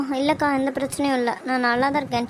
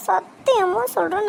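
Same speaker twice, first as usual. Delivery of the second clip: சத்தியமா drawn out slowly on a higher pitch; desperate vow; 4 semitones higher, slower than usual. Acted. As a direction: swear it desperately, stretching சத்தியமா high and slow. Desperate repeated vow to her sister.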